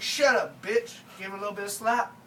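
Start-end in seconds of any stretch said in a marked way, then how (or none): 0.0-1.0 shouted shut up. Retold or imitated. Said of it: "I was like".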